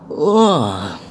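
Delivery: a drawn-out yawning ugh; sleepy groan. Acted. Shower woken by his driver, yawning groan. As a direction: groan like you just woke up. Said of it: "yawning from his sleep".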